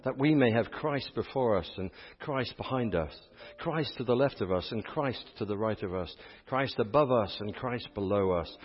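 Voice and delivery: solemn congregational prayer, winding down gently; opening prayer. Real, not acted.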